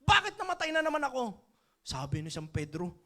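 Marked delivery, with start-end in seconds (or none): 0.1-1.3 higher, much louder indignant outburst; furious complaint. Retold or imitated. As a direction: demand an answer from Saint Peter, fuming. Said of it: "Galit na galit siya".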